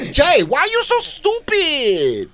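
very high, drawn-out Latina demo; spicy Latina accent. Shown as a demonstration. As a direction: scold him in a hammed-up high Latina voice. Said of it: "a spicy female Latina".

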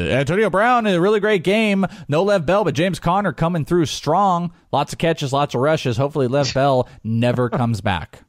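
high, punchy sportscaster read easing down at the end; professional update voice. Pretend. Host mimicking his in-game radio updates, mock professional. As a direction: put on an in-game update announcer. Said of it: "I'll have to get all professional".

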